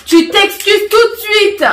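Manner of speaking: slow, high, insistent order; stern demand. Real, not acted. Slapped adult demanding an apology at once, stern demand.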